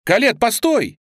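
loud high cry, pleading; shouting. A narrator's reading. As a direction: call after her to stop. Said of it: "закричал Лингвини".

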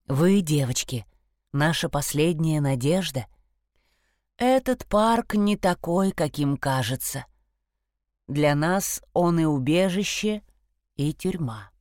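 a grave, weary stag; deep stag voice. Acted. The stag pleads.

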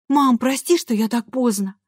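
put-on a teenager talking her way out of trouble; apologetic girl. A narrator's reading. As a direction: daughter apologising to mum for coming home late. Lisa apologises, higher voice.

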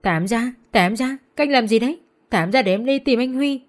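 crying and shouting. Acted. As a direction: yell to be let out, in tears. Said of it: "vừa đọc vừa khóc". (gào khóc đòi thả ra)

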